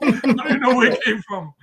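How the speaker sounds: high, loud words through laughter; laughing disbelief. Real, not acted. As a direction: still cracking up while protesting. Still laughing at his remark.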